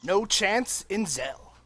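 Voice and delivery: put-on old timey radio announcer recap; dramatic announcer narration, rising with the battle; grand old ballroom announcer.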